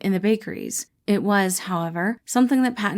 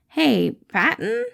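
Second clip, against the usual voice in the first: higher, slow, tentative call; Remus voiced; 7 semitones higher, slower than usual. Remus hesitantly gets his boss's attention, slow and tentative. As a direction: reach out hesitantly.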